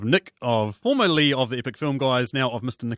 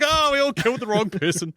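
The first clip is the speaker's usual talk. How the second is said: mock cheery; 8 semitones higher than usual. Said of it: "They're like".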